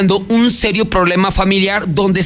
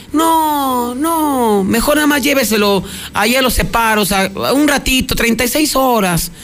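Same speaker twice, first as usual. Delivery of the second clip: pleading grandmother; 4 semitones higher than usual. Retold or imitated.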